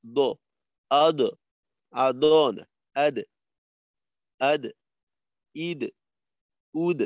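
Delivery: আদ with a full heavy echo on দ; heavy qalqala. Shown as a demonstration. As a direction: bounce the দ firmly. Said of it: "মোটা কলকলা".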